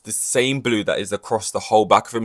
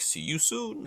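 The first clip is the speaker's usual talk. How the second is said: careless; 7 semitones higher, 9 dB quieter, slower than usual. Retold or imitated. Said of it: "didn't really care".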